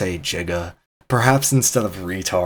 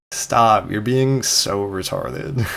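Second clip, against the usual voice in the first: teasing tone; slower than usual. Shown as a demonstration. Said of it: "the intonation of my speech influences".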